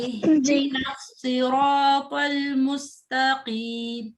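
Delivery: slow, drawn-out Quranic recitation. Shown as a demonstration. Teacher reciting slowly for the student to repeat. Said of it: "जी, अरफा पढ़ें।".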